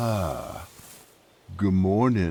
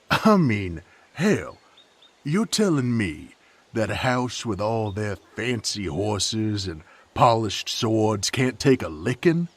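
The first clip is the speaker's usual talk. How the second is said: higher and louder, sneering at the fancy house; mock their pride with heat; scornful outburst; 3 semitones higher, 3 dB louder than usual. Mocking the rival house.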